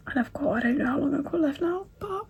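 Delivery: crying. Real, not acted. Crying over heartbreaking book chapter.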